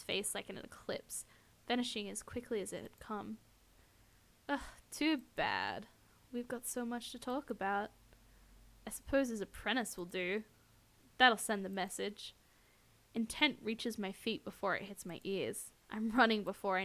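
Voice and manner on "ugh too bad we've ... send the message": slow-starting, lightly voiced cowboy villain; a touch of drawled menace; saccharine drawl. Stalker settles for the apprentice, light menacing drawl. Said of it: "drawling voice is saccharine venom".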